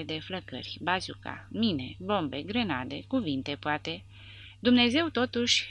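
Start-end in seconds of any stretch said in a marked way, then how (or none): 4.6-5.7 high, loud impassioned cry; fervent. A narrator's reading. Legionnaire rousing his comrades, fervent. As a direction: preach it with fire.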